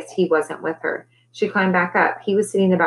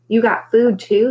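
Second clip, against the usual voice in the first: higher, louder singsong question; singsong delight; 5 semitones higher, 5 dB louder, slower than usual. A narrator's reading. Boy sees the sandwiches, singing out. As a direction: sing out the question, lifting the pitch. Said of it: "he sang".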